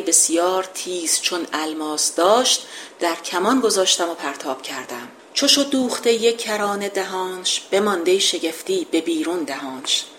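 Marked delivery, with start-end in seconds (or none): 5.3-10.0 measured epic verse reading; poem recitation. Acted. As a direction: declaim the couplet like an old epic.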